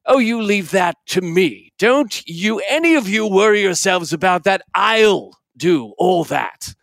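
a blustering uncle waving everyone off, dragging out the last words; Uncle Podger. Acted. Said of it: "and Uncle Podger would say".

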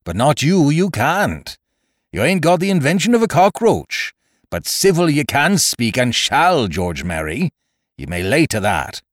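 high, indignant scolding that settles at the end; pirate captain flaring up in outrage; angry pirate tirade. Acted. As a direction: dress down an insolent shipmate. Silver rages at George in warning.

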